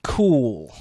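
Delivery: slow, a hint of a bored wrestler; slow, dismissive wrestler voice. Acting Orton in the ring.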